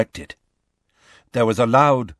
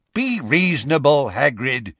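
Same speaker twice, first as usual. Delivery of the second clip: yelling; 2 semitones higher than usual. A narrator's reading. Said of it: "A man yelled".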